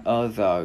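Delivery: "giờ" with the tongue pressed and buzzing; voiced tongue vibration. Shown as a demonstration. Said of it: "Chữ đờ này đưa lưỡi ép rung nha".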